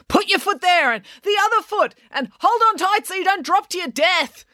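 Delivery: high, bossy calls to a struggling partner; a touch of a screamed order; mild shouted instructions. A narrator's reading. April calling instructions to Tom over the course, bossy. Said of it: "April screaming instructions at him".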